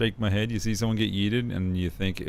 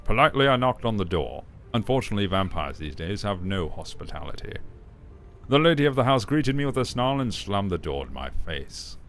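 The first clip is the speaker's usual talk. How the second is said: Cat Picard voice. Shown as a demonstration. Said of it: "I could do a Cat Picard".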